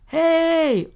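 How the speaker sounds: long, held, high loud holler; bellowing yell. A narrator's reading. Unseen creature mimics the friend's shout, bellowing. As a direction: imitate a creature's drawn-out bellow. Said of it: "It sounded like it was yelling".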